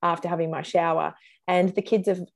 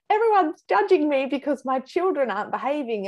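higher-pitched worried mum thought; stressed mum's inner voice; 8 semitones higher than usual. Acted. Mum in the supermarket during a meltdown, fretful inner voice. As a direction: act out a mother feeling judged.

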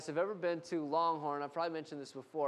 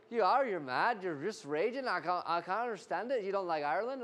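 needling Irishman, lightly put on; mock-Irish baffled goading; imitated Irish accent. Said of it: "I was in Ireland, and the guy kept going".

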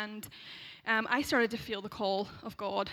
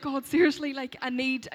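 higher, louder appeal; retold exasperated plea; 4 semitones higher, 7 dB louder than usual. She bargains with God about moving home, loud exasperated plea. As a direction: plead with mock exasperation. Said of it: "I just remember being like".

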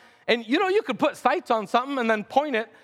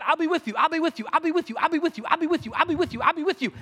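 God's voice; 4 semitones higher, much faster than usual. Acted. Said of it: "God had said".

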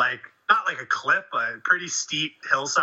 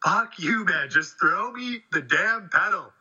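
higher-pitched mock exasperation; acted-out fed-up demand; retold angry reply; 5 semitones higher, slower than usual. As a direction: imitate an irritated yell back uphill. Retells angry reply while being stung.

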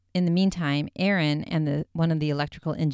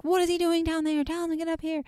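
higher, mock-agitated demand; a half-acted angry outburst; mock angry yelling; 13 semitones higher, faster than usual. Zach demanding Billy come upstairs, mock angry yell. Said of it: "so he starts yelling".

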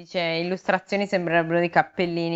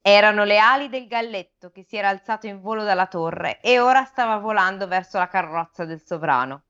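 measured read-aloud storytelling; expressive audiobook-style narration; story narration. A narrator's reading. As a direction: read the fable to listeners. Reads the fable aloud.

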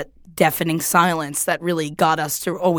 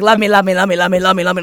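a hint of a begging brother, louder; mock needy brother; 6 dB louder, much faster than usual. Mimicking her brother's nagging, a mildly loud sing-song plea. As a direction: chant it like a clingy sibling. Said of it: "Brothers can be like".

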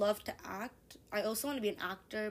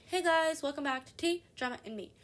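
higher, louder host greeting that fades out; mock show-opening greeting; podcast intro voice; 5 semitones higher, 3 dB louder than usual. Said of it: "podcast, I'm always like".

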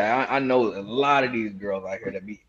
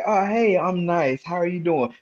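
nice and friendly; 4 semitones higher than usual. Acted. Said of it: "You can be like".

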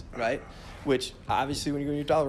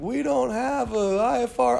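controller voice; 9 semitones higher, 4 dB louder than usual. Retold or imitated. Controller quoted.

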